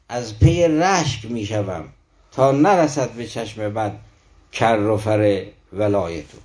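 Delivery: slow, metrical recitation of verse; poem recitation. Acted. Teacher reciting Rumi's lines before explaining them, slow poem recitation. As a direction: draw out each measure of the poem.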